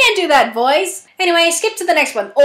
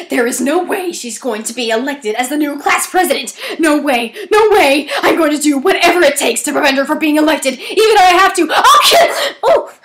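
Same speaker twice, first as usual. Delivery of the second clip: put-on mean girl character. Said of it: "Why am I turning into Princess Amber".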